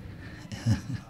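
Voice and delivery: soft, voiceless evil laugh; breathy villain chuckle. Acted. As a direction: breathe out a quiet sneering laugh. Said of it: "Er lachte".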